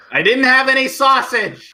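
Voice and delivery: high, loud comic outcry; hammed-up exasperated denial; flustered protest. Kenneth protests to teasing guests.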